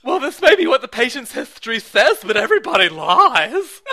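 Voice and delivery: laughing through a mock gruff doctor; smug doctor voice, cracking up; House impression. Friend as Doctor House lecturing, laughing. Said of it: "whenever I do that voice".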